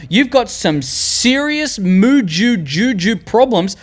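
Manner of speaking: high, slow, exaggerated exasperation; mock disbelief. Viewer challenges Jeremy's pick, mock disbelief. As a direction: draw it out high like a baffled viewer. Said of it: "I know you're thinking, you're like".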